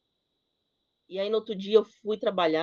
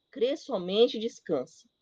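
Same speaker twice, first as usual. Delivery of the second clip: Crê somente e descanse, drawn out slowly; slow it down like a calm inner voice; slow gentle command; slower than usual. Acted. The Lord speaking to Janaína, slow and reassuring. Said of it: "eu ouvia o Senhor falando".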